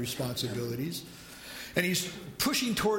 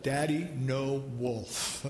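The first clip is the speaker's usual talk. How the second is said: put-on slow firm toddler; 5 semitones lower, slower than usual. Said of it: "put his hand up to his dad's mouth and said".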